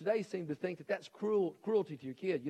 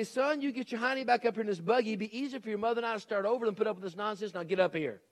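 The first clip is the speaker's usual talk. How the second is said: stern daddy; 5 semitones higher than usual. Retold or imitated. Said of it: "what my daddy would have said".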